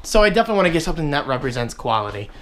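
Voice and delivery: too much caffeine, rushing the words; caffeine-jittery fast talk; wired on caffeine. Real, not acted. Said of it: "wired right now on caffeine".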